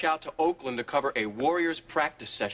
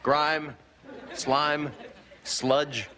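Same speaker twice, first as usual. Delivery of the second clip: upbeat military radio host; 3 semitones lower than usual. Acted. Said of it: "Good morning, troops".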